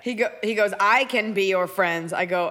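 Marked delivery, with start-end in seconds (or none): 0.8-2.1 slow, drawn-out robot voice; measured mechanical girl-robot impression. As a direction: imitate a robot slowly offering friendship. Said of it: "brunch robot".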